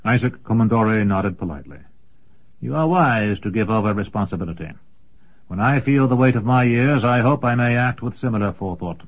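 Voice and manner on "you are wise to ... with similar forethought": polite rival wizard. Acted. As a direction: bid good night courteously. Commendore takes leave politely.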